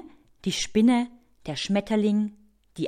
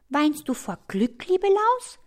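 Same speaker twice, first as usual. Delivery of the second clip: high-voiced careful inquiry; tentative ant, rising high at the end; cautious question; 8 semitones higher than usual. A narrator's reading. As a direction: ask cautiously, pitched up. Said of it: "fragt die Ameise vorsichtig".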